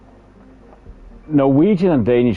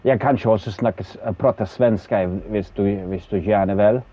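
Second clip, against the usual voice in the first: Swedish accent demo. Shown as a demonstration. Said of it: "that was actually half Swedish, half Norwegian".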